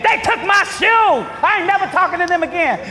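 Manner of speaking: hammed-up loud, high sulky complaint; mock grudge. Imitating a believer still mad about stolen shoes, loudly. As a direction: whine it out like someone still mad.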